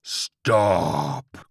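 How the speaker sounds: loud, drawn-out demon dog bellow; demonic Chihuahua cry. A narrator's reading. Chihuahua halts George's attack, loud demonic cry. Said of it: "cried the Chihuahua".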